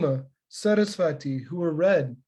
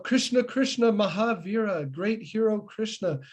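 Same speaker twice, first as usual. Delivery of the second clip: frightened calling out; 5 semitones higher than usual. Retold or imitated. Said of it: "they call out".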